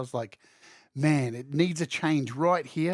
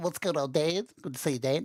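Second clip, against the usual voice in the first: dopey, goofy, dumb put-on voice; 4 dB quieter than usual. Greeting a viewer named in the chat, in a dumb voice. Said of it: "Why am I doing that dumb voice for Dan?".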